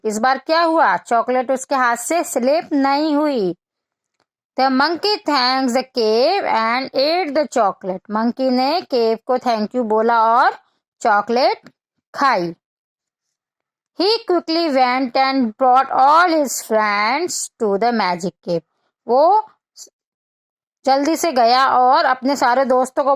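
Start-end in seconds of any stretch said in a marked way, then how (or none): 4.6-8.0 put-on slow, clear read-aloud for children; slow storybook reading; story reading. Reads English storybook text to children. 14.0-18.6 put-on slow, clear read-aloud for children; slow storybook reading; story reading. Reads English storybook text to children.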